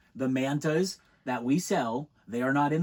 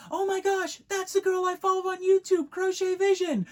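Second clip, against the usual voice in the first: very high, louder gushing squeal; girl squealing to her boyfriend; starstruck fangirl; 6 dB louder than usual. Retold or imitated. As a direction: spot your idol on the boardwalk. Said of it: "She's like".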